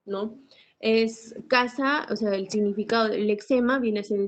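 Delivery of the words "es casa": slow, drawn-out word. Shown as a demonstration. Teacher drawing out the example for her class, slowly and deliberately. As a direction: stretch out casa slowly with a slight rise. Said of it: "Continuamos con este ejemplo".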